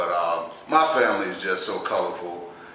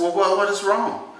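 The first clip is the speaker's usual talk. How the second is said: nurse; 10 semitones higher than usual. Retold or imitated. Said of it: "She said".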